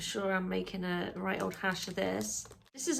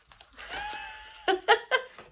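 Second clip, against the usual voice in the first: nervous laugh. Real, not acted. Nervous laugh at test drama.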